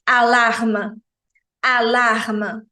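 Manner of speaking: alarma, o E final mudo; pronúncia francesa. Shown as a demonstration. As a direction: diga alarma sem E final. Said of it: "Não é alarme". (alarma com E mudo)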